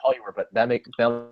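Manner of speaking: choppy robotic audio glitch; broken-up digital voice over a bad line. Real, not acted. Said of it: "You sound like a robot".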